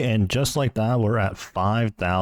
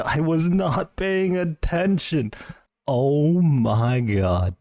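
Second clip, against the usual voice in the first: high, slow, laughing in disbelief; giddy laughing; 7 semitones higher, much slower than usual. Real, not acted. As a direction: laugh it out, overwhelmed. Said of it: "that was my genuine reaction".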